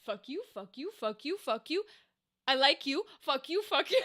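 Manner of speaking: lightly voiced hostile cat, lilting up on each "you"; cat's grudging voice. Voicing a cat that hates everyone but one person, lightly mock-hostile. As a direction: act out a picky cat cursing people one by one. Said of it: "just have a cat that's like".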